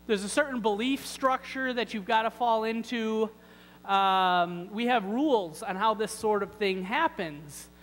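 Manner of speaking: self-important, lightly exasperated objector; mock protest. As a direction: explain the rules to someone who just doesn't get it. Acted lame man making excuses to Jesus.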